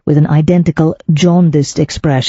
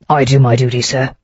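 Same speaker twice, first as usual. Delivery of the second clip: lower, heavy and unmoved; stolid; 3 semitones lower than usual. Acted. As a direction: plod through it like a tired policeman. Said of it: "he said stolidly".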